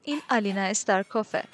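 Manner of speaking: loud, high, flustered delight; thrilled. A narrator's reading. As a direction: burst out with an excited introduction. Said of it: "ماری به وجد اومد".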